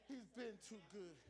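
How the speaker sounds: hushed. Acted. Pastor repeating the point to the church in a hushed voice. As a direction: let the line sink in quietly.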